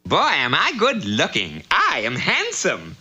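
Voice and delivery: low, smug preening voice; vain low voice. Acted. Vain prince Virgil admires himself.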